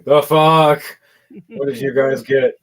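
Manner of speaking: startled leader's loud exclamation; loud disbelief. Acted. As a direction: blurt it out in disbelief. Sweating leader reacts in disbelief.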